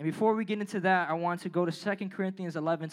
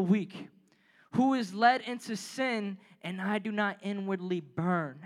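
scripture reading; 2 semitones higher than usual. Acted. Pastor reads Paul's list of hardships to the youth, earnest reading. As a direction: lean into each line like a testimony.

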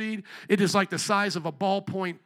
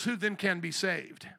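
quiet Peter question; 2 semitones lower, 5 dB quieter than usual. Retold or imitated. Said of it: "Peter goes".

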